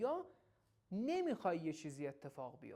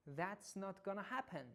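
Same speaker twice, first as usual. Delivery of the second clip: firm and sharp; much slower than usual. Shown as a demonstration. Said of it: "حالت قاطعانه و کمی هم تنده".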